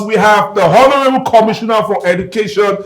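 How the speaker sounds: grand announcer's formal English; better English. Acted. Host introduces the commissioner in better English, announcer-style. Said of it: "introduce her with better English".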